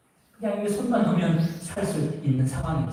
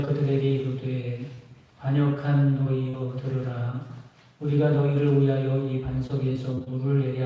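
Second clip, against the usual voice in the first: measured, reverent Bible reading; solemn scripture reading; 3 semitones lower than usual. Acted. Reads scripture aloud to congregation.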